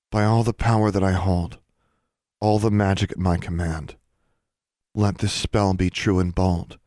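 measured, solemn spell recital; incantation. A narrator's reading. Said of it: "as if she were working a proper spell".

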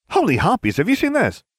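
high, loud outburst of excitement; excited cry. A narrator's reading. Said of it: "Ginevra Weasley cried".

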